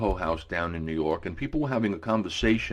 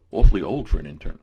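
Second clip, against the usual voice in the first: put-on British accent; 6 dB louder, faster than usual. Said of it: "a British accent".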